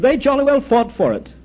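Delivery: high-pitched mock indignation; losing patience. Duke defending his inherited land to Irishman, impatiently. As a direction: insist with exasperated emphasis. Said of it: "The duke was losing his patience".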